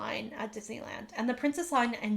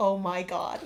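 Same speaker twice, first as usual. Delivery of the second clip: mock astonished, lower-pitched exclamation; 3 semitones lower than usual. Retelling how the other speaker walked in ahead of her: imitating Tim's huge reaction. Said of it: "I had the biggest like reaction".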